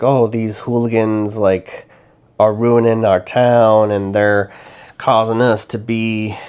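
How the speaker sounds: a light Missouri twang on the grumbling adults; sudden Missouri accent. Retold or imitated. Mocking small-town adults blaming the kids, light Missouri accent. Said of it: "I don't know why I'm going into a sudden accent".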